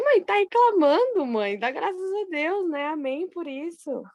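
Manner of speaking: mock scolding of mother. Daughter retelling how she corrected her grumbling mother, mock scolding. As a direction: chide her in a stretched, high-pitched voice.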